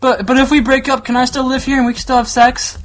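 high, whiny mock girlfriend; mocking the ex asking to stay; Kaylee. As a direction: plead sweetly like a clingy ex. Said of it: "this is what this bitch does".

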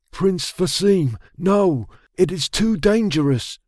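high-pitched, urgent warning; alarmed objection. A narrator's reading. Soldier objects as prince mounts wild stallion, alarmed.

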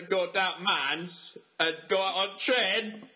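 badly faked Northern English accent; hammed-up Northerner speak; mock Northern accent. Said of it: "I'm gonna be the northerner".

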